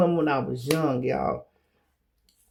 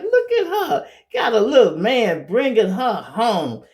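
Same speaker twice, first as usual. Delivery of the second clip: much higher, sing-song cooing aunt; cooing aunties; 7 semitones higher, 4 dB louder than usual. Retold or imitated. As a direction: gush over the little couple. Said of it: "her aunties used to be like".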